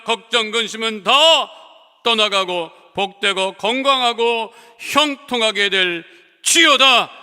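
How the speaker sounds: chanted commands, each 떠나갈지어다 struck hard; commanding prayer. Acted. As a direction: command sickness to leave with authority. (권세 있게 명령하는 치유 기도)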